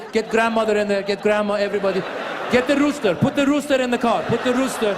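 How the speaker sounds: mock yelling dad herding everyone into the car; dad calling out. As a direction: call out to the whole family, bossy and rushed.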